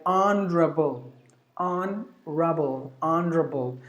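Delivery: HONORABLE in British, squeezed to "on-druh-bul"; British pronunciation. Shown as a demonstration. Teacher showing how Britishers say it, British pronunciation. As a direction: say HONORABLE the British way, middle vowel dropped. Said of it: "the Britishers would say like honorable".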